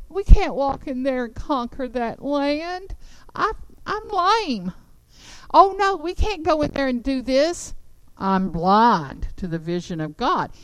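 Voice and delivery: mope like a defeated coward; whining doubter. Retold or imitated. Whining fearful doubters voiced.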